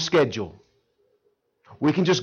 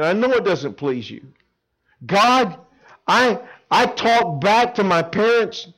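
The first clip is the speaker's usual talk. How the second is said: slow, earnest pleading confession; heartfelt teen confession to God; confession prayer; 5 semitones higher, 3 dB louder than usual. Acted. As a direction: sound truly sorry to God.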